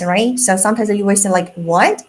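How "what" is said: "What?" with a surprised upward lilt. Shown as a demonstration. Teacher showing a surprised rising "What?". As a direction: ask "What?" as if startled. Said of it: "when you are surprised".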